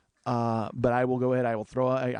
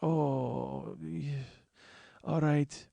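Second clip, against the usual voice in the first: imitated groaning; 7 dB quieter, much slower than usual. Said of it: "he's laying there moaning".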